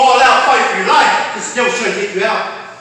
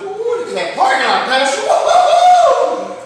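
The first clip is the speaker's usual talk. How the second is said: high, hammed-up gushing member; mock showy churchgoer; 12 semitones higher, 6 dB louder, slower than usual. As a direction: gush over the fancy parking lot.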